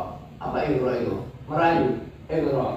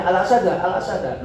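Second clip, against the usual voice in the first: rising warning call; 6 semitones higher than usual. Shown as a demonstration.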